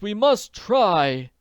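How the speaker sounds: high, loud, slow determined exclamation; rally with a loud, drawn-out cry; exclaimed. A narrator's reading. Jacob Aborn agrees to chase the thief, loud and high. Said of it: "Jacob Aborn exclaimed".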